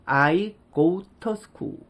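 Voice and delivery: "to" reduced to "tuh", T kept; "I go tuh school" with a weak vowel in "to"; 모음만 약화한 발음. Shown as a demonstration. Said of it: "to가 the". ("to"를 "터"로, T는 살려서)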